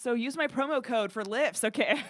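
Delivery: tongue-in-cheek sales plug; mock promo plug. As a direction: pitch it like a joke sponsor spot. Joking sponsor plug after grim story.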